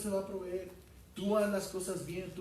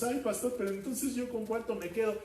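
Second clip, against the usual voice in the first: whiny congregant; 6 semitones higher than usual. Retold or imitated. Congregant's whiny complaint voiced.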